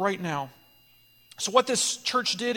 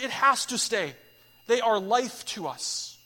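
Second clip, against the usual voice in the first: much louder and higher, each name hammered; preaching at full force; 6 semitones higher, 6 dB louder than usual. Real, not acted. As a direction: rise to a preaching shout for the church. Preacher builds to climax.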